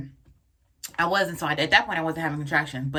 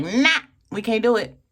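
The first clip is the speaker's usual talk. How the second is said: body pleading; 6 semitones higher, 4 dB louder than usual. Pretend. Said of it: "My body was like".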